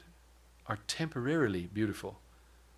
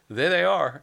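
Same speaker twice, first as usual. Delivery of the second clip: excited exclaim; 7 semitones higher, 9 dB louder, slower than usual. Real, not acted. Retelling spotting the Texans.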